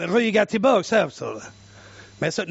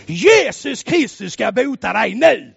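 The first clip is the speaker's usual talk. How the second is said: commanding prayer; 3 dB louder than usual. Retold or imitated. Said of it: "jag bara sa".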